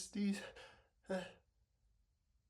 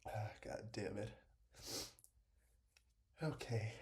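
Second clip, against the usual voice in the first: whisper; 11 semitones lower, 4 dB quieter than usual. Real, not acted. Cursing after a sneeze.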